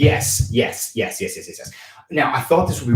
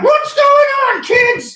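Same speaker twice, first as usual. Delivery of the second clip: very high, very slow, loud woman's voice; 7 dB louder than usual. Showing how a woman named Miss Parquet talks, the speaker does an impression of her. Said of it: "That's pretty much what Miss Parquet sounds like".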